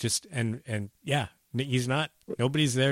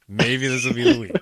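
put-on Belgian accent; 6 dB louder than usual. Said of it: "I'm going to attempt, uh, Belgian".

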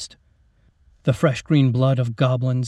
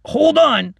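consoling; 12 semitones higher, 6 dB louder than usual. Acted. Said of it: "the gunner consoled her".

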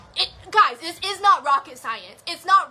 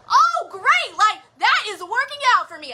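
bright delight; 5 semitones higher, 3 dB louder than usual. Retold or imitated. Upbeat acted inner reply.

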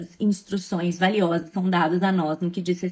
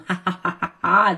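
witch cackle; 3 semitones lower than usual. Retold or imitated. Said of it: "essa risada de bruxa".

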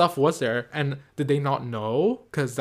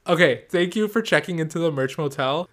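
brighter, louder sign-off; upbeat sign-off; 4 semitones higher, 5 dB louder than usual. Shown as a demonstration. Redoing the podcast sign-off, upbeat. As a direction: sell the catchphrase with energy. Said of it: "Is that too lame to say?".

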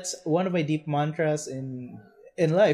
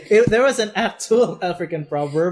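laughing while talking; 3 dB louder than usual. Real, not acted. Giggling through the joke.

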